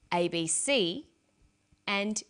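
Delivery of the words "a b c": A B C with the final C stronger; stress on last letter. Shown as a demonstration. Teacher showing learners primary stress, final C of A B C stressed. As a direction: say A B C, leaning on the closing C. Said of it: "last letter is pronounced more strongly".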